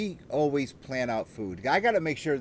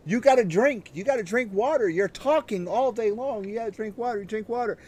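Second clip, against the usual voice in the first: higher-pitched mock yelling, not truly shouted; retold scolding, pitched up; imitated nagging yell; 6 semitones higher than usual. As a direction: imitate someone insistently yelling advice at you. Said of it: "they yell at me".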